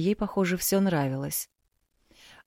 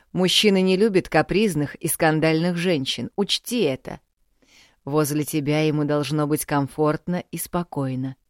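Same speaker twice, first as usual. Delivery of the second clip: lecturing father; 4 dB louder than usual. Acted. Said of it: "поучал родитель".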